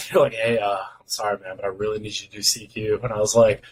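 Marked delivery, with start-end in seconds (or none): 0.3-3.0 apologetic, slightly lowered request; mock-polite asking of a favor; retold politeness. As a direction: ease into an awkward favor, softly. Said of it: "like, all polite".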